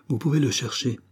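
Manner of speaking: a touch of gloating triumph; the kid taunting the bandits, mildly triumphant; triumphant announcement. Acted. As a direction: lightly crow it at the bandits. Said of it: "annonçait triomphalement".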